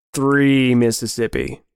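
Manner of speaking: slow, drawn-out count; menacing countdown. Acted. Friend counting down before the hunt, slow menace. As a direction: stretch out the number as a threat.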